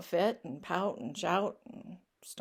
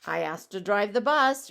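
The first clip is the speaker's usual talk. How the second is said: indignant pigeon; 6 dB louder than usual. Acted. Pigeon lists his requests.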